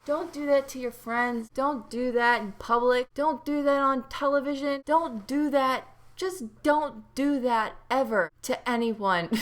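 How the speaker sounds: rising, slowing scolding list; mock lecture. Real, not acted. Warning viewers against crotch poking, mock scolding. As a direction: wag a finger at the audience. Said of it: "lecturing viewers".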